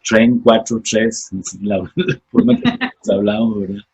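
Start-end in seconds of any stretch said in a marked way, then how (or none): 0.1-1.3 slow "tren cuatro tres" with a long, strongly trilled R in "tren"; dragged Costa Rican R. Shown as a demonstration. A tico showing his audience the dragged Costa Rican R. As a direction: roll the R in "tren" hard and draw it out, slowly. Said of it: "Arrastramos la R".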